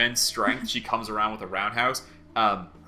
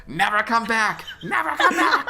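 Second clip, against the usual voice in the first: high, loud shout, climbing higher on the repeat; 13 semitones higher, 6 dB louder than usual. Acted. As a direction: shout them away from closing gates. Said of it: "you just hear shouted".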